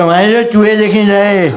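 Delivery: slow, loud, shouting voice of an enraged driver; mock furious shout, slow and loud; furious outburst. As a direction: blow up at the kid, dragging each word. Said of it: "अबा कदर भड़क गया भाई".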